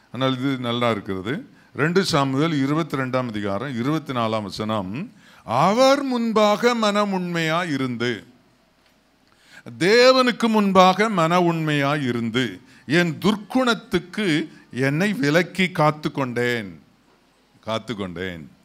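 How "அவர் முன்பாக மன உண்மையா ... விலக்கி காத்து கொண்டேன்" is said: slow, drawn-out verse reading; solemn pulpit recitation; scripture declamation. Real, not acted. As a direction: proclaim the verse in long, measured phrases.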